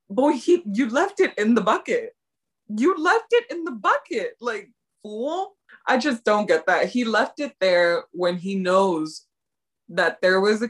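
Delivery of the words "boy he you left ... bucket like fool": mock exasperated. Viewer scolding the character, in exasperated disbelief. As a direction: scold him like an obvious fool. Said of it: "And I was just like".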